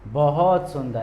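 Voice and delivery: बहुत as casual "bohot" before सुंदर; spoken form. Shown as a demonstration. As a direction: colloquial bohot sundar. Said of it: "ऐसे बोलते हैं".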